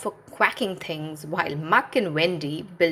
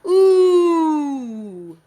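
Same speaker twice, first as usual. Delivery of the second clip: long, much higher, louder scared ooh; frightened wail; 10 semitones higher, 9 dB louder than usual. A narrator's reading. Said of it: "Lofty wailed".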